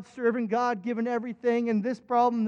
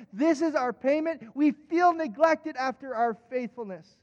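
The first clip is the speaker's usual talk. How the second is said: aggrieved plea; 4 semitones higher than usual. Retold or imitated. Acted plea of a neglected servant.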